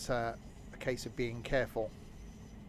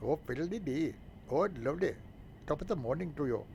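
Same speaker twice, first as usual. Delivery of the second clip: higher, hammed-up stage Irish; mock Irish accent; 3 semitones higher than usual. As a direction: ham up the Irish lilt, sing-song. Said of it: "apologize if you're offended by those remarks".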